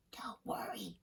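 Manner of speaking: unvoiced secret whisper. A narrator's reading. Brother whispering a secret to his sister. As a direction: breathe it under the table. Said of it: "Saul whispered to me".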